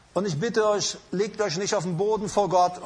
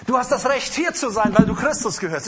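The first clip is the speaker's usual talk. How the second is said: louder repeat; 2 semitones higher, 3 dB louder than usual. Acted. Preacher drives the promise home to the congregation, louder.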